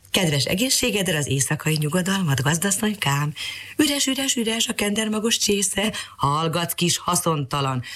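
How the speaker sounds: lightly voiced little canary, rising high on Üres; a hint of a cheeky bird singing out; mildly high-pitched canary chatter; chirpy canary. Canary greets Mariska in story.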